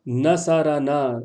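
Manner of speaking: نصرنا drawn out as na-sa-ra-naa, ر voweled. Shown as a demonstration. Teacher correcting a student's reading, نصرنا with voweled ر. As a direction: slowly sound the "a" after ر in نصرنا. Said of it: "را پہ بھی زبر پڑھنا ہے".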